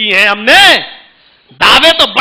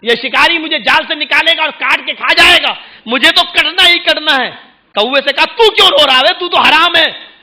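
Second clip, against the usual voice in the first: higher, lightly voiced pigeon; a hint of a fretting bird; pigeon complaining; 4 semitones higher than usual. Pigeon tells the crow it will be eaten, higher fretful voice. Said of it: "تو کبوتر بولا".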